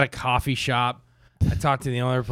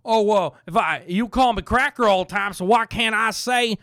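higher, indignant redneck voice; mock offended redneck; 7 semitones higher than usual. Comic mocking whites offended by "cracker", hammed-up redneck. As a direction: whine like an aggrieved redneck.

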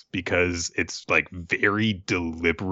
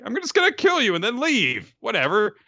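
mock bored werewolf; 12 semitones higher, 3 dB louder than usual. Werewolf voiced bored and high.

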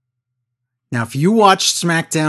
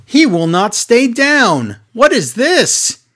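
slow, raised commentator shout; mock commentator call; 5 semitones higher, 3 dB louder, slower than usual. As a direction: call it like a stunned announcer. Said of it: "Michael Cole says".

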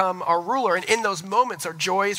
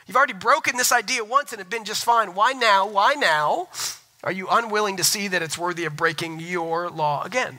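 higher-pitched, insistent questioning; indignant challenge; 4 semitones higher than usual. Acted. Jesus confronting the Pharisees over their law, indignant challenge. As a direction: press the critics with emphatic, raised questions.

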